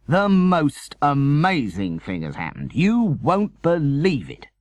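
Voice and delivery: lightly acted, barely containing the news; breathless excitement. Father bursting in on mother, mock breathless excitement. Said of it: "breathless with excitement".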